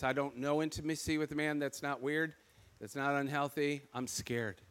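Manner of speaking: quiet honest confession to a friend; vulnerable confession. Retold or imitated. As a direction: let the confession fade into a hush. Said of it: "I said".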